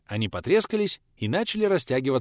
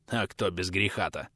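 softer, lower resigned exhale; a tired old man sighing; sighed out; 4 semitones lower, 6 dB quieter than usual. A narrator's reading. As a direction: breathe the question out wearily. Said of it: "Вместо ответа выдохнул тот".

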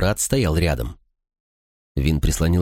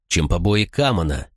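usual speaking voice

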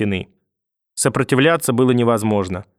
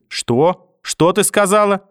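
rising to a cry for help, much higher; mother screams for help, rising sharply higher; mother's scream; 7 semitones higher than usual. A narrator's reading. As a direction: builds from threat to a desperate scream for help. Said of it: "прорвался откуда-то мамин крик".

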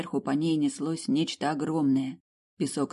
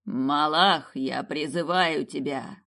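shouted summons; slower than usual. Acted. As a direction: summon it with a cry. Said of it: "как закричал Давлат".

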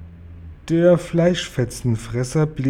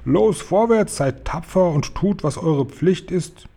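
rallying call; 6 semitones higher than usual. A narrator's reading. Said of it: "rief der Oberkommandierende".

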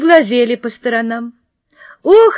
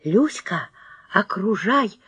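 hushed soft command; whisper; 7 dB quieter, slower than usual. Acted. Girl whispers to her friend to surround the puppy, a soft hush. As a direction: whisper the order so the dog won't hear. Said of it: "зашептала я".

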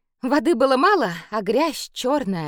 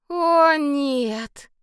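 groaning; 7 semitones higher, 4 dB louder than usual. A narrator's reading. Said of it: "простонала Саша".

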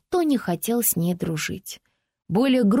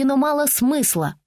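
put-on a higher, indignant child's voice; little girl retorting; 5 semitones higher than usual. Francie answering the girl who teased her, indignant child's voice. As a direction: talk back like an offended little girl. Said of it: "Фрэнси ответила на оскорбление".

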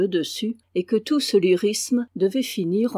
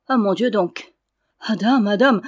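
louder, acted cry of amazement; astonished exclamation; 5 dB louder than usual. A narrator's reading. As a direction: exclaim loudly, as an amazed villager in a tale. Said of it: "s'écria Pelot". (exclamation stupéfaite)

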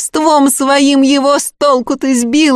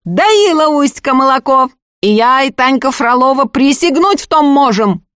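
shouting over; 5 semitones higher than usual. Acted. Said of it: "перекрикивая Агафью".

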